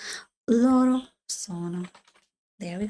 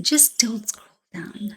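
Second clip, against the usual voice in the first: whispered warning; 2 semitones lower, slower than usual. Shown as a demonstration.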